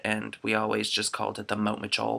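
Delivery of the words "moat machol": "moat machol" for remote control; brother's childhood "remote control". Retold or imitated. Quoting little brother's speech impediment, "moat machol". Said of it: "that's how he said it".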